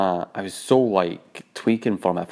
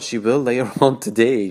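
laughing. Real, not acted. Laughing at her own prank.

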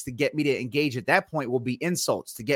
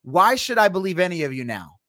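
high, bewildered voice, much higher throughout; pitched-up confused skeptic demanding answers; confused non-believer; 6 semitones higher than usual. Retold or imitated. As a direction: play a baffled outsider piling up wait, wait.

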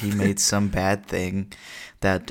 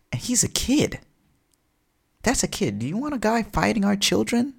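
higher, pleading candidate voice; campaigning villain; 8 semitones higher than usual. Acted. Lex Luthor campaigns against Superman, high and indignant. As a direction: pitch it high, appealing to the voters.

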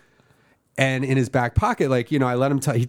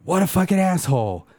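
mock outraged boss; 10 semitones higher than usual. Margie laughing while cursing.

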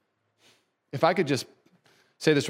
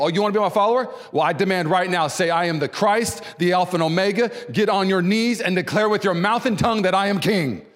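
demanding Jesus; 4 semitones higher than usual. Pretend. Preacher parodies Jesus demanding that followers kneel, mock commanding. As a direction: imitate an overbearing leader ordering submission. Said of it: "we would picture Jesus saying this to people".

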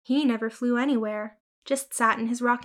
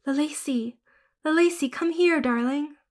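higher, coaxing call; calling the cat; 4 semitones higher than usual. Acted. Girl crouching to call her ghost cat. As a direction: call her sweetly to come. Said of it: "I crouched down and called her".

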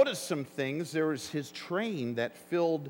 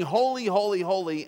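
seraphs' cry; 5 dB louder than usual. Retold or imitated.

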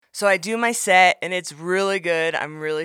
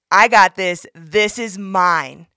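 mock gym guy; 9 dB louder, much slower than usual. Gym guy refuses bench.

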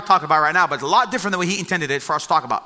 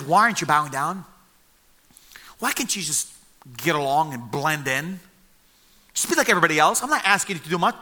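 mellow coaxing king; 3 semitones lower than usual. Retold or imitated. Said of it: "a very mellow voice when he talks to them".

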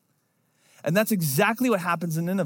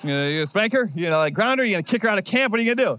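eager for punishment; much faster than usual. Retold or imitated. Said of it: "ready for the justice".

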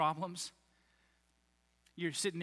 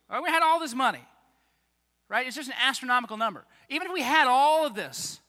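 higher, louder flustered protest, rushing near the end; exasperated Philip; 4 semitones higher, 7 dB louder than usual. Retold or imitated. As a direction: play Philip throwing up his hands over the cost.

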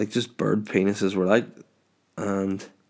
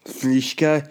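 laughing; 4 semitones higher than usual. Real, not acted. Laughing repeat of the misspelling.

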